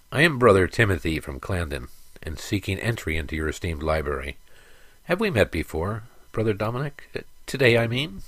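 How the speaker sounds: lightly voiced senile monk; a hint of an old forgetful monk; doddering old man.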